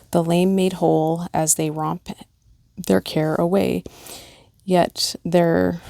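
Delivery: gentle, measured poem read aloud; lightly heartfelt recitation. Acted. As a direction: read it like a memorial verse. Reads pet memorial poem aloud.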